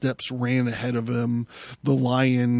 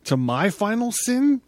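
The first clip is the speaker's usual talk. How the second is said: high, loud disbelieving cry; shouted; 10 semitones higher, 3 dB louder than usual. Acted. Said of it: "shouted Zarathustra".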